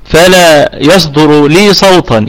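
slow, deliberate teaching of ishmam; slow demonstration. Shown as a demonstration. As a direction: draw out each word as you explain the lip rounding. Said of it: "الإشمام يكون أني أقف على الكلمة بالسكون".

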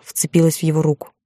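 ordinary delivery, nothing marked

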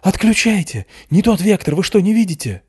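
high loud frantic shout; alarmed shout. A narrator's reading. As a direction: yell at them to stop now. Matveev keeps yelling alarm.

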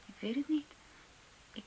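frightened unvoiced whisper; barely breathes the words out. Girl whispers nervously to the teacher.

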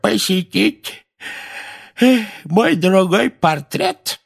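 slow, high, raspy drawl; creaky voice. A narrator's reading. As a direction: creak it out with a fake yawn. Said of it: "скрипучим голосом ... с притворным зевком". (скрипучий голос с притворным зевком)

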